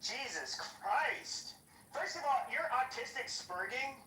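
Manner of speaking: very slow, drawn-out groan of disbelief; long exasperated Jesus Christ. Real, not acted. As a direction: stretch it out in disbelief. Exasperated at co-host's crude question.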